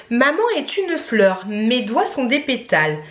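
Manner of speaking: slow, phrase-by-phrase recitation; child's poem recital. Retold or imitated. Reciting her daughter's Mother's Day poem, slow sing-song recital.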